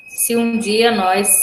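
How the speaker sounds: "nós" said as "nóis", with a glide; slow reading, "nós" turned into "nóis"; dialect pronunciation. Shown as a demonstration. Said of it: "eu falo nós".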